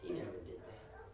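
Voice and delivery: a hint of a low, stern God; stern God, low and quiet. God rebukes Brother Daniel, low and stern. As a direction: let God set the record straight, quietly. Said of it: "God looks down and said".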